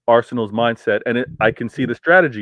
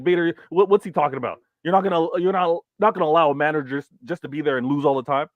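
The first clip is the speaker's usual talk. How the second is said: mock chat viewer; 5 semitones higher than usual. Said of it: "don't be in the chat being like".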